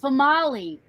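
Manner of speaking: "Famali" said fuh-MAH-lee; unexpected name pronunciation. Shown as a demonstration. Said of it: "But it was spelled female".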